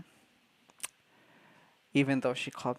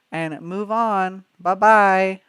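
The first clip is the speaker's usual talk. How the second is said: dismissive; 5 semitones higher, 9 dB louder, much slower than usual. Retold or imitated. Dismissing coworker, mock farewell.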